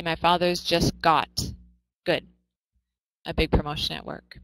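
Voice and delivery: the sentence read evenly with "got" instead of "gotten"; British version. Shown as a demonstration. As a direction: model the British wording plainly. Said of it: "So in British English, they would say".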